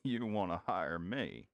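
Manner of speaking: lightly voiced old Western cowboy, low and drawling; gruff cowboy NPC. Old cowboy tells the noisy party to pipe down, lightly voiced. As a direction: warn the rowdy newcomers off, a cowboy low and steady.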